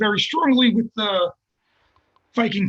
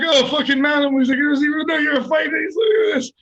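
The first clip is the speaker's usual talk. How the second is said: lightly voiced ball-busting coach, a bit higher; mocking coach; 5 semitones higher than usual. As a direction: tease him like an old-school Italian coach. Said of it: "a ball buster from New York".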